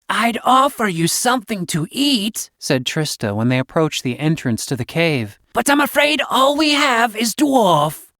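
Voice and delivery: a snake mother scolding her mate, smooth; serpent woman. A narrator's reading. Trista's voice.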